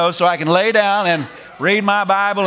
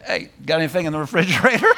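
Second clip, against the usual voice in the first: casual familiar ask; much faster than usual. Pretend. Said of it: "I might just say".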